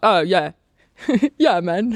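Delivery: London Cockney accent, light on consonants, consonants dropped. Explaining British accents, demonstrate how a Cockney speaker sounds, in a Cockney accent. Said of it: "a Cockney would be more of that kind of London accent".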